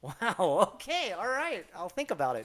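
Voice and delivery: high, loud acted astonishment; taken aback. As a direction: play up being amazed and unsure. Acting own taken-aback reply to coworkers.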